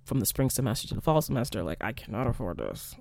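quietly pleading imitation; pleading request. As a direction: beg them not to cut the pay. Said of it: "go back and tell them, like".

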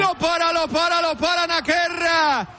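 rising shout as the keeper saves; excited penalty call. Real, not acted. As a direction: call the save at full pitch. Penalty saved, live commentary.

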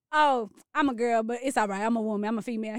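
imitating a deep-voiced woman; deep voice impression.

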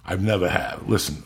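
ordinary delivery

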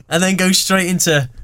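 ordinary talk

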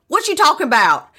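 high, indignant mock retort; acted quarrel. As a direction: fire back in pretend outrage. Acting out the couple's quarrel.

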